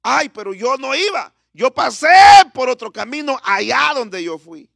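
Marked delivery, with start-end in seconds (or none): 0.0-0.3 long, raised "ay" wails; mock crying out; imitated cry. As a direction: act out the cries of the suffering. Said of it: "donde la gente grita".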